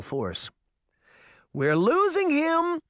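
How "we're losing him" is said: high, slow desperate cry; young sister crying out desperately as Puck vanishes. A narrator's reading. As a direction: cry out in panic as he slips away. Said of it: "Daphne cried desperately".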